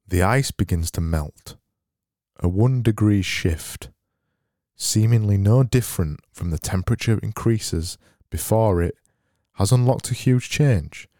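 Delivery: informative voice. Acted. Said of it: "this kind of informative voice".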